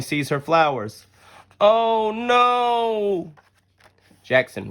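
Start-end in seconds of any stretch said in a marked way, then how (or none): 1.6-3.3 much higher, louder alarmed Oh no; alarmed cry. Acted. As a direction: gasp it out as she's about to fall. Jackson sees Sophie about to trip.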